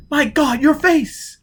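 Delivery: high, loud shocked cry; horrified. A narrator's reading. Gisbella seeing Foyle's tattoo flare, aghast. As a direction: recoil in horror as you say it.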